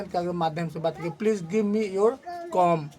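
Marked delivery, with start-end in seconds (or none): 1.2-2.9 "comb" ending on m, as "kom"; silent B. Shown as a demonstration. Teacher giving a sample sentence, "comb" said without its b. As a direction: leave the b off "comb". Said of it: "उसका उच्चारण नहीं होगा".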